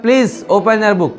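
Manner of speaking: slow, careful classroom English; slow model phrase. Shown as a demonstration. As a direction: say it slowly like a teacher. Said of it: "तो मैं क्या बोलूँगा English में".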